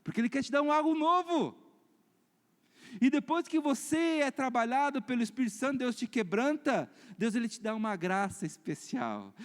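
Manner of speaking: high, emphatic preacher; forceful preaching. Real, not acted. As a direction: proclaim it to the congregation. Exhorts the congregation. (pregação enfática)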